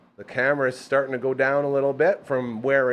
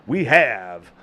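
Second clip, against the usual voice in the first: much higher, louder sung-out announcement; hype introduction; 9 semitones higher, 4 dB louder than usual. Acted. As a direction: belt the name like a ring announcer.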